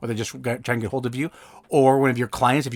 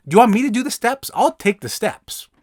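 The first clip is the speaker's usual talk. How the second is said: eager helpful offer; 7 semitones higher, 4 dB louder than usual. Acted. Eager offer to take over.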